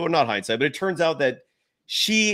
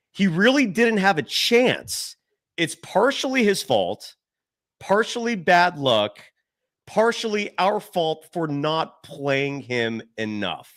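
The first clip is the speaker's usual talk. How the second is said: deliberate quote reading; slower than usual. Retold or imitated.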